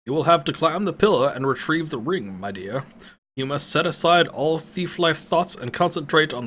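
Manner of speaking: put-on old sage warning the thief; solemn old wizard. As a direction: lecture the thief gravely. Pentagon voiced, old man.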